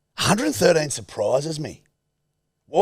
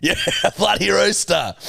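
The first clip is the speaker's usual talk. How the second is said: put-on blokey baby talk; 2 semitones higher than usual.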